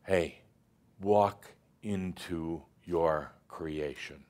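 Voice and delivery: slow, calm invitation; unhurried, soothing nudge. Retold or imitated. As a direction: draw it out gently like a patient inner voice. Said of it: "And the I am saying".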